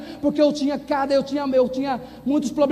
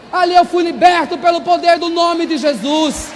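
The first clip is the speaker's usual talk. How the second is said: real shouted hallelujah fervour; triumphant praise shout; 2 semitones higher than usual. Real, not acted. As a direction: proclaim deliverance at full voice to the congregation. Climax of testimony, praising God.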